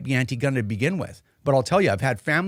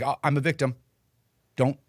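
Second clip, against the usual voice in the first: hammed-up self-pitying bureaucrat; mock victim act. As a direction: parody a politician crying victim. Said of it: "it's like".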